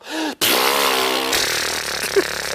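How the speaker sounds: wet laugh. Shown as a demonstration. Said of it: "Here's a wet laugh".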